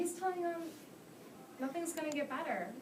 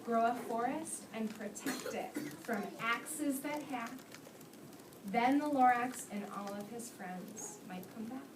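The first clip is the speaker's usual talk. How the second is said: put-on reading to children. A narrator's reading. Teacher reads The Lorax aloud.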